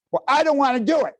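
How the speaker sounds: loud, high, fast whiny protest; angry child. Acted. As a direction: act out a kid's angry refusal. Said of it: "let's say anger".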